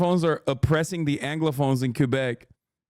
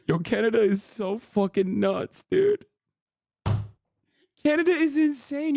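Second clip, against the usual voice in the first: incredulous outburst; 9 semitones higher than usual. Real, not acted. Streamer reacting to absurd chat, squealing in disbelief. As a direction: shriek it in amazement.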